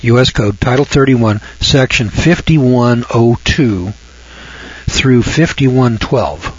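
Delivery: slow, each number spaced for writing; slow dictation. Shown as a demonstration. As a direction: dictate the code section for notes. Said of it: "Write this down".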